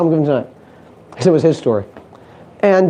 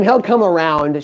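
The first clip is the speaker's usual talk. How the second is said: reassuring wife; 4 semitones lower, slower than usual. Retold or imitated. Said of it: "She's like".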